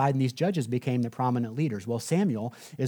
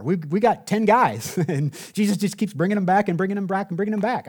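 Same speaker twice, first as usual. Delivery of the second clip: laughing excitement; 5 semitones higher than usual. Acted. Laughing, rushing the repeats. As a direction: voice a little higher, the repeats rushed out with a laugh. Gleeful picture of endless soldiers.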